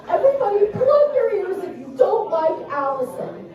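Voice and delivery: daughter reporting her taunt. Retold or imitated. Daughter recounting her own taunt to mom, imitated high child voice. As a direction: imitate a little girl telling her story. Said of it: "She goes".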